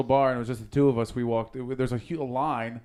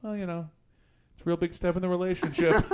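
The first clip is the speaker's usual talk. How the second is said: higher, awkward retold excuse; nervous; 6 semitones higher than usual. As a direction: play up a flustered explanation, amused. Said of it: "you seem a little off".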